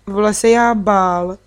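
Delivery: little brother announcing slowly he'd be scared; toddler voice. Acted. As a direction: speak like a small child reporting his fear. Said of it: "hlásil Tůfek".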